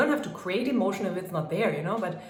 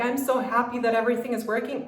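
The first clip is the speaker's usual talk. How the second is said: higher, brighter and louder joy; elated; 4 semitones higher, 3 dB louder, faster than usual. Shown as a demonstration. Coach showing an elated affirmation, higher and louder. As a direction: sound thrilled that it works. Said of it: "you're elated and say".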